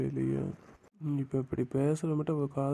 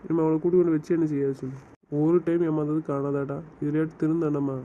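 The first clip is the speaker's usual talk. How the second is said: heated anger. Acted. Angry man snaps at his friend over his wife, heated. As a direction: lash back at a friend who keeps pushing.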